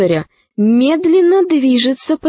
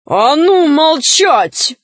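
shouting; 4 semitones higher, slower than usual. Acted. Knight yells at crow.

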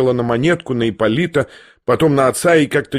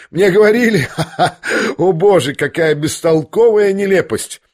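laughing outburst; 5 semitones higher than usual. A narrator's reading. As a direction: exclaim at the absurdity through a laugh. Agitated Ippolit exclaims and laughs.

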